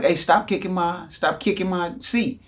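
put-on high-pitched complaint to a kid; retold annoyed protest.

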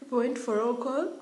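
calling out loud and high; summoning everyone to roll call, loud. Retold or imitated. Mock call-out to girls for roll call.

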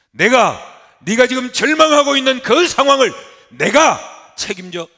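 높고 크게 '내가'를 외치기; 책임지겠다고 우렁차게 선언하라. Acted. 하나님의 약속을 힘껏 선포. (우렁찬 선포)

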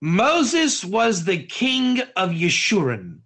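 slow, deliberate delivery of a powerful statement; measured, solemn declaration; weighty pronouncement. Shown as a demonstration. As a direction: hand it over slowly, as something momentous. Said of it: "give over something very powerful".

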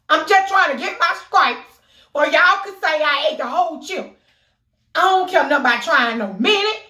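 pumped up about eating the whole chip; hyped rant. Real, not acted. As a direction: talk yourself up before the chip. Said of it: "hyped defiant rant".

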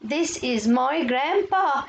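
very slow, separated English words; slow model reading. Shown as a demonstration. Teacher models a textbook sentence for pupils, slow modelling. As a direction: draw out each word for young learners.

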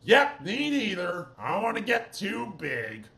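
lightly voiced keen student; Art. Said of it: "I'm Art".

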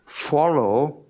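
ordinary delivery

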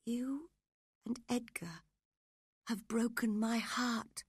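high-pitched reproachful woman; dying Catherine. Acted. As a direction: reproach him in a high, weak voice.

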